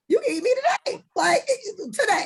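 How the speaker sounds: high, loud playful squeal; excited mock come-on. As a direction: tease him, pitch way up. Joking about a flirty message.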